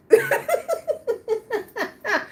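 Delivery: long high laugh breaking out. Real, not acted. Laughing at her ex's lame excuse. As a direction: laugh it off at the memory.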